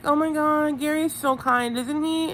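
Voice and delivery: high, gushing imitation; Teresa. Recapper mimicking a contestant praising a guy, high gushing. Voicing Teresa fawning over Gary.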